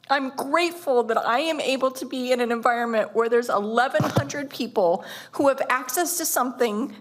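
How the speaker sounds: choked up, pushing on through; real feeling rising in the voice; heartfelt plea, on the edge of tears; emotional. Real, not acted. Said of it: "sorry that I got emotional on that".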